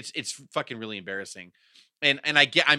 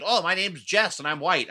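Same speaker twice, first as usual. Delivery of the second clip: slower, higher put-on imitation; mock self-impression; 5 semitones higher, 4 dB louder than usual. Host playing someone imitating him, slow mock impression. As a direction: exaggerate an imitation of yourself. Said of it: "If somebody imitated me and said".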